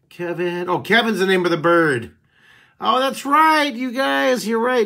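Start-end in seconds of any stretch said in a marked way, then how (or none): 2.8-4.9 sudden realization. Real, not acted. Realizes viewers corrected him.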